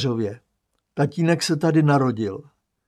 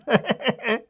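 bleating laugh; 10 semitones higher than usual. Acted. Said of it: "mečivě se tomu zasměje".

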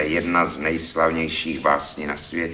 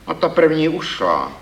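stern; 9 semitones higher, 4 dB louder than usual. Acted. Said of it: "pravil jsem přísně".

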